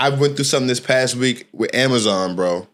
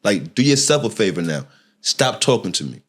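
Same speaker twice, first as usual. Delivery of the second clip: aggravated warning; 5 semitones lower than usual. Retold or imitated. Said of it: "even more aggravated".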